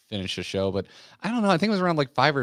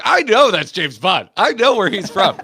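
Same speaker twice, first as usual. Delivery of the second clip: retold disbelief; 9 semitones higher, 9 dB louder than usual. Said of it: "I was like".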